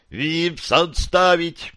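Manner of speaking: sharp high order to stop; urgent command. Acted. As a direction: call it off, urgently.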